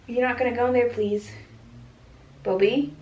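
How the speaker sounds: high, loud playful scolding of a pet; teasing sing-song to the cat. Real, not acted. To Bobby the cat climbing the bassinet, high playful scolding.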